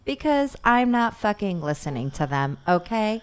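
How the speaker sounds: snooty LA lady; dismissive suburban mom voice; middle-aged LA lady. Pretend. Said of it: "stereotypical middle-aged L A lady".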